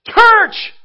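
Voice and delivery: one big high shout of the word; shouted answer. Acted. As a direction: belt it out to fill the blank. Preacher shouts the answer himself.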